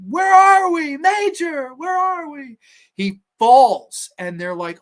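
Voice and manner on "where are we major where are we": high, loud frantic call; shouting up. Acted. Others calling up to the major at the top, frantic high shout. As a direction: call out urgently to someone far above.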